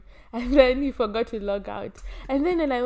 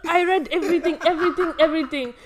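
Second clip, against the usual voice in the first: laughing; 5 semitones higher, faster than usual. Real, not acted. Laughing while retelling discovery.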